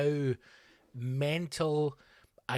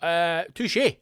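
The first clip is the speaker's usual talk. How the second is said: higher and louder, hammed-up wavering; mock shaken self-doubt; 6 semitones higher, 9 dB louder than usual. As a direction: let the doubt shoot up in pitch. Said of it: "And I thought".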